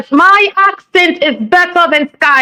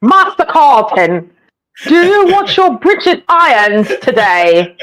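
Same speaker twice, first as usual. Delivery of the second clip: butler impression. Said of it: "It's like Jeffrey. From the Fresh Prince".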